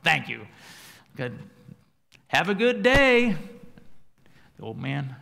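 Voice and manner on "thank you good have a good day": loud, exasperated brush-off. Retold or imitated. Frustrated driver rebuffing old man, loud and exasperated. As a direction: snap at the old man to leave him be. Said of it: "He looks at the guy and says".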